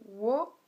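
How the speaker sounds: "wo" falling, with no rise back; shortened third tone. Shown as a demonstration. Teacher showing the tone rule, "wo" only falling. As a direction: drop "wo" and leave it down. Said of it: "quatrième ton au lieu du troisième".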